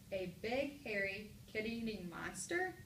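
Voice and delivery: slow, with "monster" rising as a question; question reading. Shown as a demonstration. Teacher offers another way to read it, rising question. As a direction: lift "monster" as if asking. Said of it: "Which way does this sentence sound best?".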